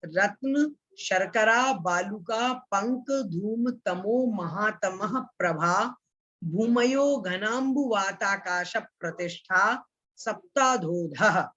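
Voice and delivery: measured Sanskrit sutra recital, slowing at the end; chanting a scripture line for students; sutra recitation. Shown as a demonstration. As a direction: recite the sutra word by word, pausing after each. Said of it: "इसका उच्चारण है".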